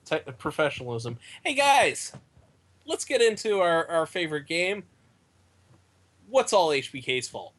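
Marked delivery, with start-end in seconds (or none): 1.4-7.5 game show host. Pretend. Hosting a game segment.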